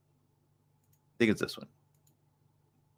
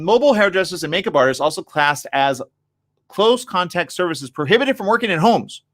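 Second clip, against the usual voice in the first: reading aloud; 8 semitones higher than usual. Real, not acted. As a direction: read the article out, slightly raised voice.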